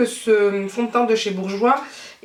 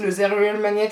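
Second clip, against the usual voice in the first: English accent. Shown as a demonstration. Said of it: "avec mon superbe accent anglais".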